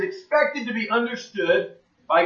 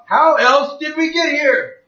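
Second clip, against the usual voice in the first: put-on repeating the friend's line, higher, in a German accent; a hint of a German accent, pitched up; 6 semitones higher, 4 dB louder than usual. Preacher quotes the German former atheist again, German accent. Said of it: "In his strong German accent".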